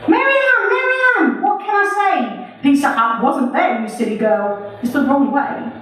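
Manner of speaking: sing-song it back at her like a smug rival; Alex answering back. Acted. Alex's reply verse in poem.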